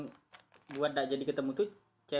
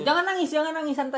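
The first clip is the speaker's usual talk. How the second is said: mock comforting; 11 semitones higher, 6 dB louder than usual. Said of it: "Terlalu bawa suasana dia".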